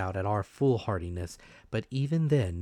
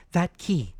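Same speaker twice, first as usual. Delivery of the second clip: higher, louder, a brave scolding mother; mother's defiant voice; 9 semitones higher, 5 dB louder than usual. A narrator's reading. Mother scolding the villagers, high and loud. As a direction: shame the men into helping.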